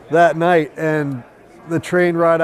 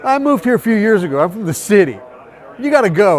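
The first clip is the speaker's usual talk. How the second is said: put-on raised, articulated New York accent; 3 semitones higher than usual. Hostel woman says she's from the city, New York accent. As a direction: imitate a no-nonsense New Yorker's accent. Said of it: "articulated New York accent".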